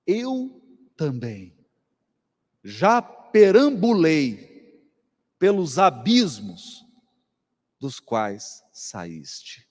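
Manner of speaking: slow, formal, each phrase stretched; solemn old-fashioned mentor. Retold or imitated. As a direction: speak like a grave elder in stately old Portuguese.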